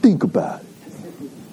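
put-on slow, playful Boston accent. Preacher repeating Scripture's closing words for fun, in a slow Boston accent. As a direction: draw it out like a Bostonian. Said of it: "say that with a Boston accent".

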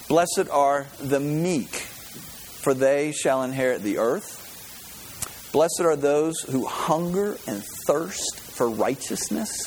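slow, solemn Beatitudes reading; scripture reading. Acted. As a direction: let each blessing land, slowly. Reads the Beatitudes.

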